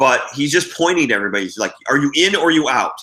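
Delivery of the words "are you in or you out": loud, demanding shout. Retelling a judge pointing at players for an answer: imitating someone shouting. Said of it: "shouting at us".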